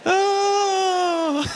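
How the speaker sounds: high crying laugh; laughing fit. Real, not acted. Preacher overcome with laughter after the crowd repeats. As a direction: break down laughing.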